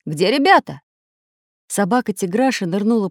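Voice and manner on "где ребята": loud, urgent call; alarmed cry. A narrator's reading. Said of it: "закричал Самоделкин".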